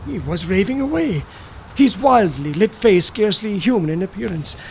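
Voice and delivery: plain reading voice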